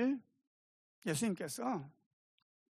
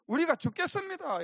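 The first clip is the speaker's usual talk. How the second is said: high, urgent plea for help; disciples' alarmed cry; 10 semitones higher, 4 dB louder than usual. Retold or imitated. Disciples waking Jesus in the storm, alarmed cry. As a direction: cry out as if about to drown. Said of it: "뭐라고 깨웠느냐면은".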